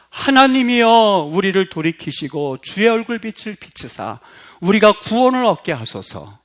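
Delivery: prayerful psalm reading. Real, not acted.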